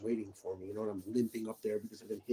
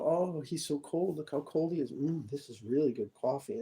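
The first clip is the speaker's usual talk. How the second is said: snide inflection; 3 semitones higher than usual. Retold or imitated. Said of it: "this whole inflection".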